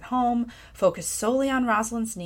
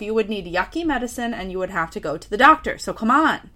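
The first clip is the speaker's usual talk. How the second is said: annoyed; 5 dB louder than usual. Retold or imitated. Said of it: "already annoyed at myself".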